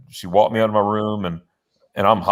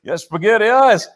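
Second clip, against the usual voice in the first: retold excitement; 5 semitones higher than usual. Retells his excitement before surgery.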